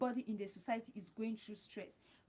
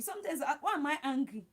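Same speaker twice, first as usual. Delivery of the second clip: laughing. Real, not acted. Laughing at her own moodiness.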